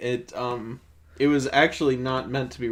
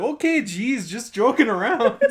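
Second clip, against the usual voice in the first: mock sheepish; 8 semitones higher, 5 dB louder than usual. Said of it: "he's like".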